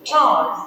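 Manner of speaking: "charms" given firm emphasis; stressed syllable. Shown as a demonstration. Teacher scanning a poem line, "charms" stressed. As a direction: lean on "charms" as the beat. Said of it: "a stressed".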